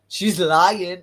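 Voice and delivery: a performer. Retold or imitated. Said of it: "you hear a performer saying".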